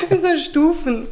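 laughing through the words; high, giggling protest; lachend. Real, not acted. Laughs over the stairs story. (lachend protestiert)

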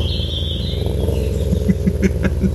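a low, good-natured laugh; amused chuckle. Acted. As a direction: laugh off her threat kindly. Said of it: "Doch Racker lachte nur".

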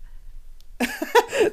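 near-silent high wheeze of a laugh; high wheezing laugh. Real, not acted. Laughing at the host's menopause joke, high wheeze. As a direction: squeak with helpless laughter.

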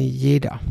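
"jeder" set apart after a pause; stress on jeder. Real, not acted. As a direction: land "jeder" as a weighty single word. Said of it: "Und ich betone".

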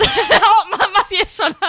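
high, loud laughing through words. Real, not acted. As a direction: crack up while talking. Host cracks up after joke. (lachend gesprochen)

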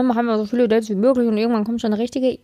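fast, breezy mock-coach pitch; a light parody of a dating coach's advice. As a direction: rattle it off like a glib dating coach. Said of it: "wie manche Dating-Coaches es empfehlen".

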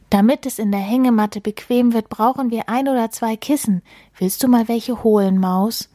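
wheedling mole. Acted. Mole sending mouse for pillows, quick coaxing request. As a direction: hurry through a coaxing ask.

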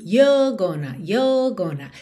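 you're gonna with no rolled R; British you're gonna, R left out; british accent. Shown as a demonstration. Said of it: "Não enrola a língua, porque tá com sotaque britânico".

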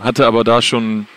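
speaking up over hall noise; to someone hard of hearing. Real, not acted. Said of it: "du musst lauter reden".

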